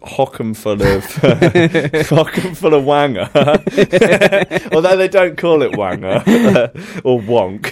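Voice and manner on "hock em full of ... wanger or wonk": giggling through the words, higher pitch; laughing. Real, not acted. Podcaster amused by drug slang, laughing. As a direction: crack up while talking.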